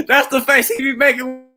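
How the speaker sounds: loud, high voice bursting with laughter; real cracking up, barely getting it out; helpless laughter. Real, not acted. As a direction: squeal the words out between laughs. Cracking up at the man's face.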